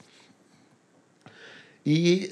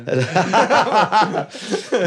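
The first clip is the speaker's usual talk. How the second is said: laugh; 7 semitones higher, 4 dB louder than usual. Real, not acted. Laughing at nickname again.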